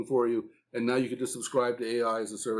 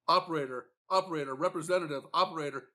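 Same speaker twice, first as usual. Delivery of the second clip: frustrated caller; 4 semitones higher, faster than usual. Retold or imitated. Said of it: "what the customers are saying are".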